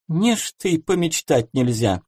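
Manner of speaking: high, huffy protest; offended retort. Acted. Seamstress huffily answering her scolding colleague. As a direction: sulk back at her colleague. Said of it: "обиженно отозвалась та".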